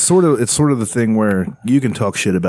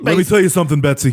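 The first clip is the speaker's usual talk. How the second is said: wrestling promo; 5 semitones higher, faster than usual. Retold or imitated. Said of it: "He just cuts a promo on her".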